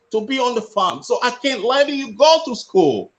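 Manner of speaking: a mild stern retold telling-off, not a full yell; retold angry shout. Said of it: "He shouted at me".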